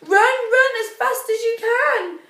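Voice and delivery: high, loud urgent pleading; urgent plea. Acted. Kitty urging Mister Gingerbread Man to run fast. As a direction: hurry him along, desperate. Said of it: "she cried".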